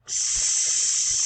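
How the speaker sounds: S as a hiss; sound s. Shown as a demonstration. Teacher sounds out See for class. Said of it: "So let's sound that out".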